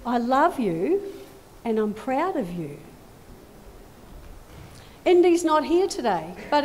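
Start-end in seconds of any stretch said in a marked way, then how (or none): 0.1-2.8 tender blessing. Acted. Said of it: "God says to you".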